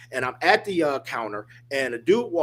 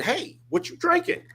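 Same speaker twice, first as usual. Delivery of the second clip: pitched way up, calling across the counter; friendly call. Retold or imitated. To the big biker at the counter, a high friendly call. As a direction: call it out high and bright so he hears. Calling to the man who misheard.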